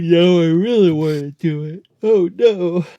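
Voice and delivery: hammed-up eagerness tipping into dread; mock excited panic. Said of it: "It's like".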